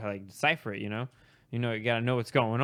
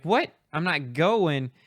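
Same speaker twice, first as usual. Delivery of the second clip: high, loud "what", then slow incredulous echo; retold stunned questioning, pitch jumping up; shocked disbelief; 3 semitones higher, 6 dB louder, slower than usual. Student hears he won't graduate, shocked. Student reacts to being refused.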